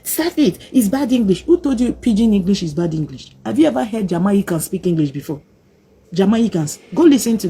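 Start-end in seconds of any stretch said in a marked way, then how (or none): 0.0-1.4 higher mock-scolding parent; lightly hammed-up higher parental scold. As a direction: scold the child like a fussy parent. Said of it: "they be like".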